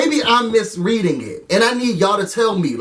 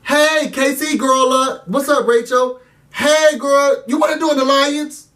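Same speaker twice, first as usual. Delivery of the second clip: playful friendly voice; 4 semitones higher than usual. Retold or imitated. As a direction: lightly act a sweet invitation. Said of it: "living room scene".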